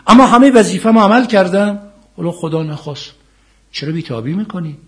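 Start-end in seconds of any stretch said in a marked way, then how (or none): 0.1-1.8 loud, high protest of duty done; emphatic declaration. Acted. Preacher voicing a believer, loudly insisting on duty. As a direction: insist you did your part.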